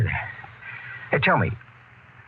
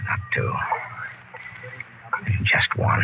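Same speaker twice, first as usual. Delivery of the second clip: hushed admission; 4 dB quieter, slower than usual. Acted. Sick captain admits he's infected.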